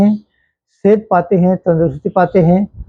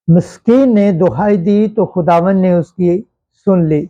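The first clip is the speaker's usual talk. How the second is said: slow, measured scripture reading; psalm reading. Acted. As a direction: read a psalm aloud solemnly, pausing between phrases. Reads psalm with refrain.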